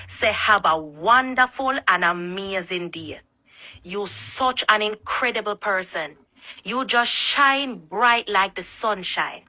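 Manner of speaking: easy Jamaican patois, warm and unhurried. Shown as a demonstration. Asked to say it in patois, Jamaican patois. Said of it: "And in Jamaican patois".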